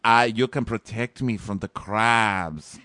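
lightly faked Russian accent; half-hearted mock Russian accent; bad Russian accent. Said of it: "I can't do a Russian accent".

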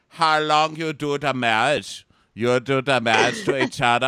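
put-on high, loud old local's voice; old man. Old guy asking a couple about marriage, hammed-up old man. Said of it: "this old guy's like".

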